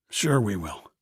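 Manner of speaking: dry, bitter sarcasm; sarcastic. Acted. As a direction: scoff at the idea. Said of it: "I said sarcastically".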